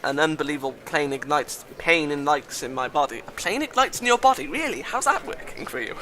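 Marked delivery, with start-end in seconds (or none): 3.3-6.0 high, light mocking voice; high sarcastic questioning; teasing mockery. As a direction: poke fun in a high-pitched voice. Mocks the line just misread.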